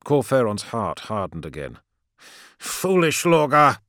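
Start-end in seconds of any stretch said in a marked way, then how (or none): 2.6-3.8 high, slow scolding priest; stern priest. A narrator's reading. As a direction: chide him slowly from above. Cor Phaeron's heart hardened.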